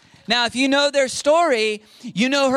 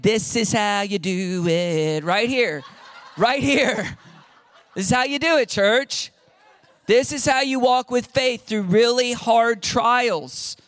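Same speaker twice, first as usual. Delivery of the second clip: slow, proud voice of God showing off the family; God holding them up as the example; voicing God proudly; slower than usual. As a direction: present them like a proud father. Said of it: "Sorry, that was super distracting".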